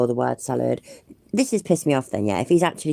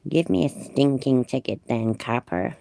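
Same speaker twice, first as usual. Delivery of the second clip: bad American accent. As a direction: sneer it in a weak American accent. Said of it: "Which accent? The American one".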